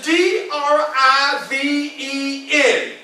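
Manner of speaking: D R I V E N spelled slowly letter by letter. Shown as a demonstration. Speaker spelling his word for the crowd, slowly. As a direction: spell out D R I V E N with a pause on each letter. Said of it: "This word that is floating in my mind".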